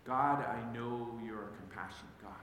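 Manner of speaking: hushed, savoring the words; slow reverent reading. Shown as a demonstration. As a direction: let each phrase settle. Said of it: "maybe pause there for a moment".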